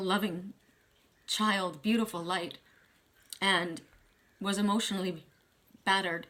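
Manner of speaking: real emotion welling up, halting with long pauses; choked up, stopping to collect yourself; getting emotional. Real, not acted. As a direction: hold back tears between phrases. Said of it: "I'm gonna get really emotional".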